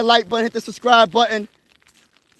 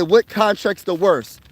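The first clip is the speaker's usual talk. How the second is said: poll question; slower than usual. Retold or imitated. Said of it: "a community post and say".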